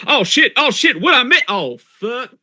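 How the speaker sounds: high, frantic panicked cursing; panicked yelling. Retold or imitated. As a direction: yelp it out in a rushed panic.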